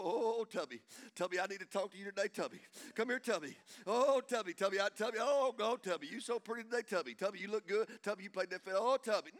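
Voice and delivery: lightly parodied prayer cadence; mock prayer voice. Preacher mock-addressing friend Tubby, lightly put-on prayer voice. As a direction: hit each repeated name like a pious refrain. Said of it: "Is that the way you talk to your friends?".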